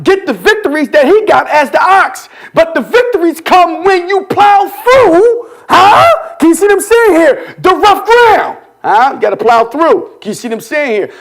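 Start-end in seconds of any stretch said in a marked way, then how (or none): 2.5-8.6 raised, punchy preacher delivery; full-force preaching. Real, not acted. Preacher urging congregation to plow through, fired-up preaching. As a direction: preach it higher and with drive.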